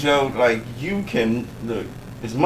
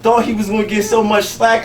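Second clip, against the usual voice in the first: usual speaking voice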